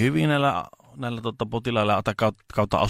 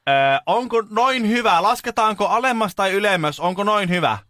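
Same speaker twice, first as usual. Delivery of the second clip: high, slightly raised, careful questioning; solicitous carer; 10 semitones higher, 4 dB louder than usual. Retold or imitated. Carer adjusting the unresponsive patient's bed, high careful questions. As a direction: check patiently in a high, projected voice. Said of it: "Niin pitää vähän huutaa".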